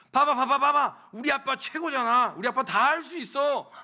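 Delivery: loud, high bragging cry; proud child shouting. Acted. Child in dad's arms boasting to those around, loud and excited. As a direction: show off your dad to everyone. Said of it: "소리를 치더라는 거죠".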